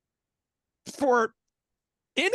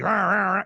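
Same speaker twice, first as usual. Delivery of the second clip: wrestler roar; 4 dB louder than usual. Retold or imitated. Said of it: "It was like Hulk, Hulk Hogan".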